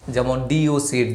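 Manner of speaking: ডিওসি spelled out slowly as a first syllable. Shown as a demonstration. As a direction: break the word into its parts. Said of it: "উচ্চারণ করতে পারি দুইবারে".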